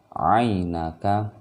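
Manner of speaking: "Ainaka" in slow recitation with an unstretched 'ai glide; short diphthong. Shown as a demonstration. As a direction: recite "Ainaka" measured, not lengthening the opening. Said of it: "ainnya tidak baca panjang". ("Ainaka" dengan 'ain tidak dipanjangkan)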